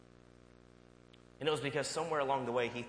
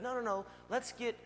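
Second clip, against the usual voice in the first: patient dad; 11 semitones higher than usual. Retold or imitated. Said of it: "And I'm patient".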